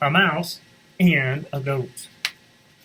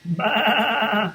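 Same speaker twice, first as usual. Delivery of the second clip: a high baa; bleating sheep; 9 semitones higher, 3 dB louder than usual. Acted. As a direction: bleat like a lamb. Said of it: "said Sheep".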